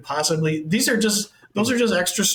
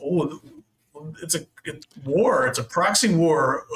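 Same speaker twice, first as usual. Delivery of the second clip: understated imitation of grave seriousness; lightly mocked sombre pronouncement; mock solemnity. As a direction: play at being solemn, with halting pauses. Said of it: "very serious and solemn".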